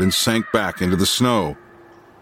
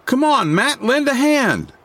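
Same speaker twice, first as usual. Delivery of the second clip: calling out. A narrator's reading. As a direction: call across the ring, pitch leaping high. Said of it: "the newcomer called to the dog musher".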